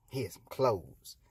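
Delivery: low, slow, soft concession; grudging. Acted. God hands clothes to Adam, grudging. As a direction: mumble it low and reluctantly.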